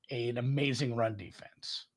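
slow hushed whisper. Real, not acted. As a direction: drop to a reverent whisper. Mock-reverent aside about run defense.

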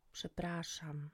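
soft, contrite voice; quiet apology. A narrator's reading. Contrite Magda apologises to her friend, quietly. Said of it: "powiedziała cicho".

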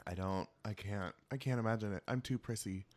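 talking through a big bite; words round a mouthful of food; mouth full. Real, not acted. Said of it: "As I take a giant bite".

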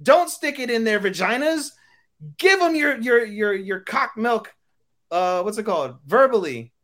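a lightly hammed-up wise hero; mock solemn hero. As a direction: lecture the crowd like a sage. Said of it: "And he said".

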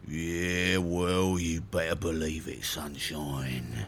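hint of a Cockney geezer; Cockney local, casual and a little loud; lightly voiced Cockney. London local answering a lost girl, lightly Cockney. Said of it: "you're in London town, innit?".

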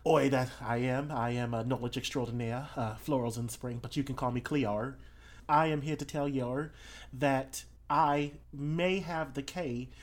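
grandiose Australian know-it-all; Australian eccentric. Acted. Introducing himself to visitors seeking help, boastful Australian. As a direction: play a self-important Australian expert. Plays Australian game character Florals in Spring.

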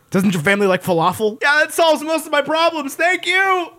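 mock voices. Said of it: "he turns around and goes".

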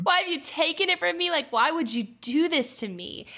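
high-pitched pleading puppy voice; sad puppy dog. Retold or imitated. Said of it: "sad puppy dog eyes and is like".

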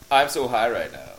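slow, loud stoner brag. Retold or imitated. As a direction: drawl it like a proud stoner. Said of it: "laughs before the quote".

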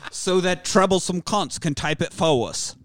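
hammed-up London accent; comic British film-star imitation; Michael Caine. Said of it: "Michael Caine Bronson".

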